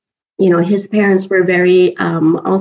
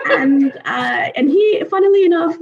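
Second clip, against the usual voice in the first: laughing; 7 semitones higher than usual. Real, not acted. Laughing through the story.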